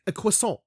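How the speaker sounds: croissant said as kwee-sahn; mock French croissant. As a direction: mimic the girlfriend's French croissant. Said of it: "Why the fuck are you saying it like that?".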